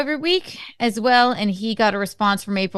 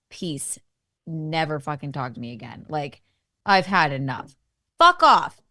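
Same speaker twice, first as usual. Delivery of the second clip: building to a shouted fuck off; 8 semitones lower than usual. Retold or imitated. Quoting his angry final message.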